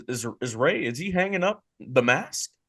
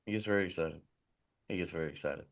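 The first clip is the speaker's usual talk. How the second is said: very soft, low-pitched aside; hushed echo; 8 semitones lower, 13 dB quieter, faster than usual. Acted. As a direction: repeat it under your breath, low and hushed. Hushed echo after co-host's mock yelling.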